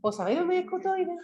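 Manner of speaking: hammed-up Cádiz accent, high, dropping the s sounds; "escutoides" said as "ekutoia", swallowing the s and d like Cádiz. Shown as a demonstration. Speaker to students, mock Cádiz accent. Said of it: "cuando la gente habla así".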